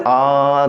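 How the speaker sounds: आ pulled out long and slow; stretched aa. Shown as a demonstration. Teacher showing how he stretches आ, slowly. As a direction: stretch the आ sound on purpose. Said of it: "खींच रहा हूँ कि नहीं?".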